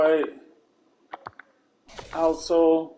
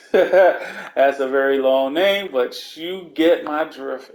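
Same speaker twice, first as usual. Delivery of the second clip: laughing; 5 dB louder, slower than usual. Real, not acted. Laughs at long shoe name.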